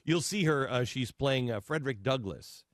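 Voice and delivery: low-pitched, lightly put-on announcer read; mock show promoter. Announcer selling a live performance, mildly mock promo. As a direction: plug it like a theatre advert, dropping low.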